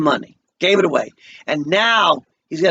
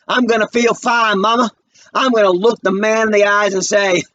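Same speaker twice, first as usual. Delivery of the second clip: stubborn son; 6 semitones higher than usual. Acted. Walter insists to Mama.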